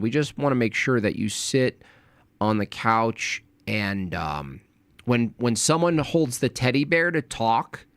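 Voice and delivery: a hint of a condescending moderator. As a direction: talk down gently like a daycare host. Mocking soft host addressing Jay.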